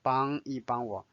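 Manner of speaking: 一 in 帮一帮我 light and toneless; 帮一帮我 with a neutral-tone 一. Shown as a demonstration. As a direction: keep 一 short and unstressed between the two 帮. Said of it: "一 take the neutral tone".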